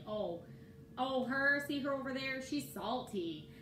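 playfully catty, she's salty; catty gossip. Retold or imitated. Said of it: "they call someone salty".

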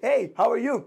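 overacted cheerful hello. Shown as a demonstration. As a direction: greet with a burst of energy. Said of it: "अब देखिए".

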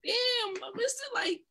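high, breathy whisper of amazement; a stunned thought breathed out; whispered inner thought. Retold or imitated. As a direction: whisper it in awe, barely voiced. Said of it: "I was like".

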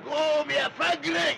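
shouted order, slowed down; angry shout. Acted. Foreman shouting at the lazy worker, angry. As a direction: bark him back to work, slowly.

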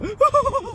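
very high little whoop of laughter. Acted. Yokai reacts on going home, high whooping laugh. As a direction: let out a falling, squealed laugh.

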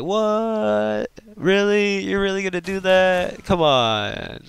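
high-pitched incredulous questioning; can't believe what you're hearing; squeaky stunned disbelief at her. Retold or imitated. Retelling disbelief at girlfriend.

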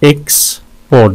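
"एक्सपोर्ट" with a wide gap in the middle; syllable breakdown. Shown as a demonstration. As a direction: pause after the first syllable of "एक्सपोर्ट". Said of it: "दो syllables हैं इसके". ("एक्सपोर्ट" बीच में रुककर)

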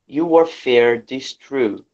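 ordinary talk

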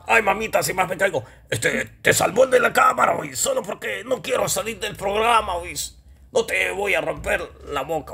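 comic puppet voice making idle threats; blustering puppet character. Acted. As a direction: bluster like a touchy little puppet. Puppet Deca threatens the cameraman.

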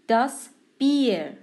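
Bier with a long ee vowel, set apart. Shown as a demonstration. Teacher demonstrating vowel pair, Bier with long ee. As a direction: stretch the ie in Bier into ee.

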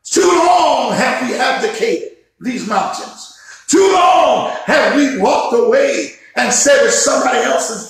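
rising, shouted sermon cadence with hard stresses; full-force preaching. Real, not acted. Pastor stirring up his congregation, full-force preaching. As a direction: preach it full out and lift the room. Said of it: "Man, I feel myself preaching".

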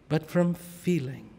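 but from feeling, dropped soft; hushed. Shown as a demonstration. To the congregation, repeating the point quietly. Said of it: "repeats phrase, loud then hushed".

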